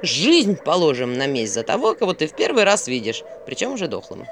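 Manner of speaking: lightly mocking owl; mildly sarcastic. Owl mocks avenging a stranger, mildly sarcastic. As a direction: pile on the irony. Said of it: "язвительно заметил Филин".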